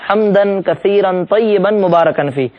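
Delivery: حمدن کثیرن طیبن مبارکن فی slowly, each word separate; careful recitation. Shown as a demonstration. Teacher reciting the longer prayer addition slowly. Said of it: "اضافہ آیا ہے".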